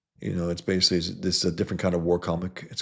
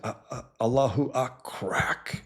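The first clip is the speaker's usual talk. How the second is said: high, slow, strained mock cry of a dying fighter; mimicking a dying jihadist's last words; dying terrorist; 8 semitones higher, slower than usual. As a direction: wail it out high and slow like a man going down. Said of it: "And the guy's like".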